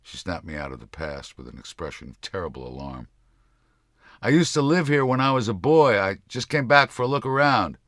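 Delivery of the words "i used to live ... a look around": high, loud, overly gentle voice; gentle innocent tone. A narrator's reading. Man at the door pleading gently with the old lady. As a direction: sound harmless and sweet to a wary stranger. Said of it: "in a tone and pitch contrived to speak volumes of my gentle nature".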